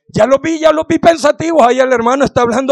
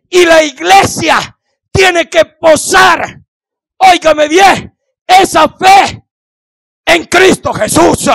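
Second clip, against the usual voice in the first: impassioned cry; 3 semitones higher, slower than usual. Real, not acted. Preacher crying out, emotional peak.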